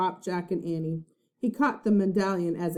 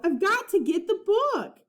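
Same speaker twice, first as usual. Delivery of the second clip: raised, insistent call; 12 semitones higher than usual. A narrator's reading. Jack insisting to Annie he needs the book, raised call. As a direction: insist while running off. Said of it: "Jack called".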